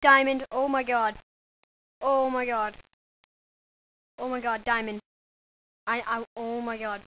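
loud ecstatic shrieks over a find; shrieking jackpot winner. Real, not acted. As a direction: scream with joy at the jackpot. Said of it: "freaking out now".

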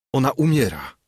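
wyżej i głośniej, z rozpaczą; zawołaj biegnąc do dziadka; zawołanie. A narrator's reading. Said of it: "zawołałem". (młodzieniec woła do dziadka, zrozpaczony)

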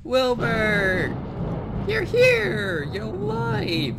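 high joyful shout; overjoyed. Real, not acted. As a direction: cry out in delight. Reunited with pet pig.

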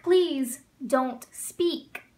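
please don't speak drawn out word by word; very slow model phrase. Shown as a demonstration. Teacher modeling a command for students, very slow. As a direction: say it very slowly and clearly. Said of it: "teacher modeling command".

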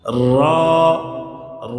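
র as a full, rounded "raw" with a held vowel; thick, stretched. Shown as a demonstration. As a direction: roll into র and draw out the heavy vowel. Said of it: "র মোটা হবে".

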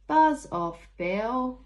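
loud, high snap at Bill; cheeky buzz off. Acted. Child in story shooing away annoying Bill. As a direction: tell the pest to go away.

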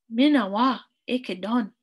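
"Mina wa" hit loud, "ike don" easing off; emphatic loud start on "Mina wa"; exclamation. Shown as a demonstration. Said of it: "like it has an exclamation mark on it".

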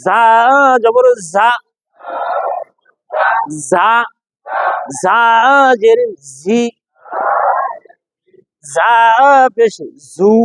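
"ঝা", "ঝি", "ঝু" thin, with a whistling buzz; thin whistling sound. Shown as a demonstration. Teacher drills the letter, thin whistled "ঝা". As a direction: whistle the z of "ঝা" from behind the front teeth. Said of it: "শীষ সহ পাতলা ভাবে".

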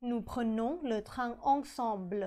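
nous prenons le train ensemble, drawn out; slow model sentence. Shown as a demonstration. (พูด nous prenons le train ensemble ช้าๆ)

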